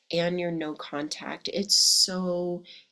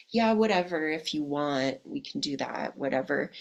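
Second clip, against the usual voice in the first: mock indifference; 2 semitones lower than usual. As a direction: imitate a guy who couldn't care less. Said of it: "that laissez-faire, you know, kind of attitude".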